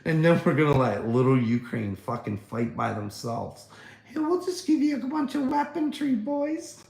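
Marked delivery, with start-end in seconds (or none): 4.1-6.8 high, cartoonish put-on voice; sarcastic high mock-ally voice; mock NATO voice. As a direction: play the smug ally brushing them off. Voicing NATO to Ukraine.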